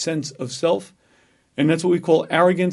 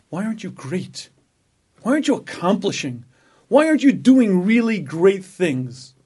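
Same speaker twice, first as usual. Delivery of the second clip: inner voice. Acted. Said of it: "there is a voice within me that says".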